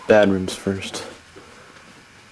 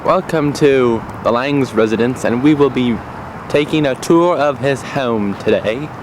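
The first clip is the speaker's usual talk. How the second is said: raised, louder, showy celebrity-host voice; Robin Leach impression; 4 semitones higher, 5 dB louder than usual. Host opening a home tour, louder showy Robin Leach voice. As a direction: play the gushing TV host welcoming viewers. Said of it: "forget that accent".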